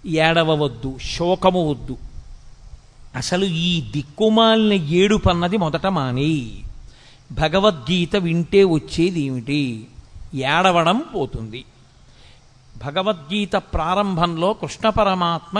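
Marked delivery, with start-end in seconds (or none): 0.1-11.7 a firm guru's rebuke, lightly voiced; Krishna scolding. Krishna rebukes weeping Arjuna, mildly stern. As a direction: tell him sternly to stop weeping. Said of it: "అంటూ ప్రారంభం చేశాడు".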